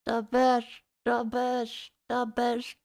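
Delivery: halting Walken-style cadence, lightly done; a mild nod to Christopher Walken's pauses. Retold or imitated. Singing along while friend teases the Walken delivery. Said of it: "Why'd you say it like Christopher Walken?".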